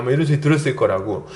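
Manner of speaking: usual speaking voice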